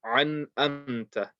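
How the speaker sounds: "an amta" with throat ain on "an", plain "amta"; alif and ain swapped. Shown as a demonstration. Teacher shows a rare misreading, letters swapped. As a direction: put the ain on "an", drop it from "amta". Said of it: "the alif as a ain and then the ain as alif".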